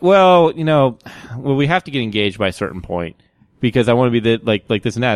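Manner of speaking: imitating women chatting casually; casual chat. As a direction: toss it off like small talk. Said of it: "they're talking like this casually".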